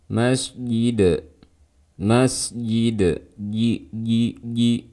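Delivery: "Masjid" said as mas-yid, the j softened toward y; jim turned to ya. Shown as a demonstration. Teacher demonstrating the fourth mistake, y-like jim in "Masjid". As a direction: glide a y in place of j in "Masjid". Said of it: "mengubahnya menjadi suara iya".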